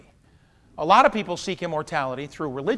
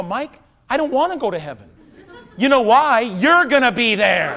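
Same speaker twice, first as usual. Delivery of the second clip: very calmly; 4 semitones higher, 7 dB louder than usual. Retold or imitated. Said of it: "very calmly".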